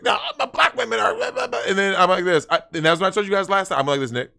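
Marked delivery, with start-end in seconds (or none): 0.0-1.6 mocking virtue signaller.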